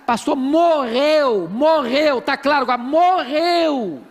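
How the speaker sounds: slow, drawn-out emphatic "morreu"; mock exasperated insistence. Woman insisting to pastor her love died, exasperated. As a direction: stretch each "morreu" impatiently.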